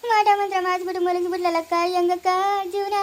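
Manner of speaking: wailing through tears; crying lament. Acted. Wife to her sister over her husband, crying. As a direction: sob out the lament.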